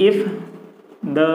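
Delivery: long pauses between single words; word-by-word dictation. Real, not acted. Teacher writing out the passive sentence for students, word-by-word dictation. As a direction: dictate it slowly, one word at a time.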